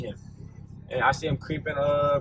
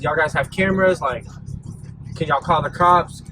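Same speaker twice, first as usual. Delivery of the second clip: calling out loudly to the clerks; yelling; 5 dB louder than usual. Retold or imitated. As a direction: raise the voice, demanding help. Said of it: "yelling to the guys".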